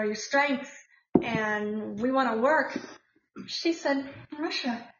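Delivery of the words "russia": put-on light Russian accent, pitched up; a friend quoted with a Russian accent. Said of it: "with a fabulous Russian accent".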